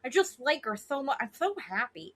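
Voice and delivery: lightly mocking baby voice; Tom Schwartz baby talk. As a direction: imitate a cutesy man gushing about his girlfriend. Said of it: "Why are you talking like this?".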